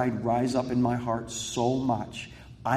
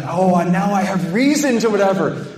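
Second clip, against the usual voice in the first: louder, higher self-righteous jab; mock vindication; 8 semitones higher, 10 dB louder than usual. After the counselor is mad too, a loud smug mock justification. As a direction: say it like you've just been handed permission. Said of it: "So then I'm like".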